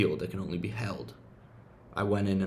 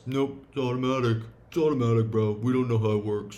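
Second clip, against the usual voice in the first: mocking science; 3 semitones higher, 5 dB louder, faster than usual. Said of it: "science says".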